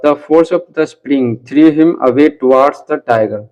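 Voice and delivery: very slow, careful read-aloud of an English sentence; slow textbook reading. Shown as a demonstration. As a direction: read it slowly word by word for the class. Rereads the passage slowly.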